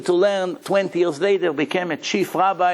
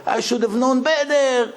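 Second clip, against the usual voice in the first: cursing; 8 semitones higher, slower than usual. Acted. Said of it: "He begins to curse him".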